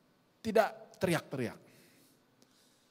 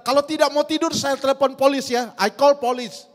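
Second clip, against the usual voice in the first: loud, high-pitched mock scolding; imitated teacher's threat; 7 semitones higher, 8 dB louder than usual. Teacher threatens children who won't sleep, loud mock warning. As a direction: raise the voice as if warning unruly children. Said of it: "Sepanjang hari dia teriak".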